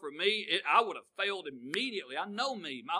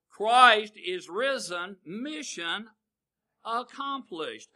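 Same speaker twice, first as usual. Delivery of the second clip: triumphant declaration; 3 semitones higher, 7 dB louder, much slower than usual. Acted. Triumphant proclamation.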